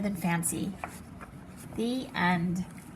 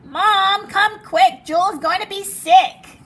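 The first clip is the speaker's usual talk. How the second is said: higher, much louder alarmed call; urgent call; 9 semitones higher, 11 dB louder than usual. Acted. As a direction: yell for mom to come quick. Girl calls mom urgently.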